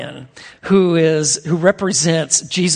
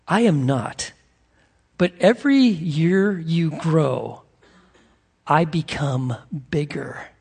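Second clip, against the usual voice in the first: tender lion; 3 dB quieter, slower than usual. Retold or imitated. Aslan's tender answer.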